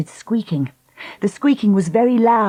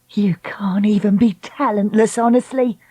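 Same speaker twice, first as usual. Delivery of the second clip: scornful; 4 semitones higher than usual. Acted. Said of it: "she cried".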